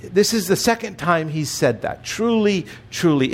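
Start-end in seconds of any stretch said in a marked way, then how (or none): 2.0-3.3 a solemn Truly, truly, the first one lifted; attention getter. Shown as a demonstration. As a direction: call them to attention with Truly, truly. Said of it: "It is an attention getter".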